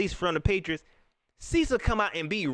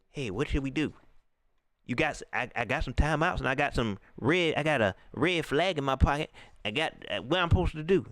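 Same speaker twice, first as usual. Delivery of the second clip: lower, fumbling mock coach; clueless coach; 6 semitones lower than usual. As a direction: play the coach lost on the sideline. Mocking coach lost on sideline.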